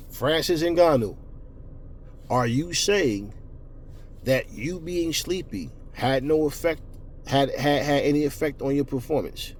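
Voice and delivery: slow, deliberate, word by word; pointed questioning. Real, not acted. Vlogger challenging a fighter on his excuse, slow pointed questioning. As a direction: spell the question out slowly, with weighty pauses.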